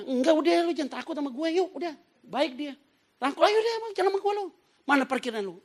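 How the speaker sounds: very high, loud coaxing; insistent Pak Haji. Retold or imitated. Preacher playing Pak Haji pulling him to the car, insistent. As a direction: coax him along, overriding objections.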